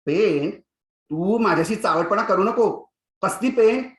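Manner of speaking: loud, rising stern teacher; stern warning. Acted. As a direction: warn him off, growing sharper. Teacher warns cheeky pupil. (कडक मास्तरांचा मोठा दटावणीचा आवाज)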